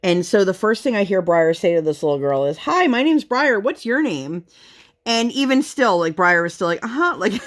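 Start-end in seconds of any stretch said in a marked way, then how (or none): 2.6-4.4 imitating her little girl. Mother voicing daughter meeting friend. 6.8-7.1 imitating her little girl. Mother voicing daughter.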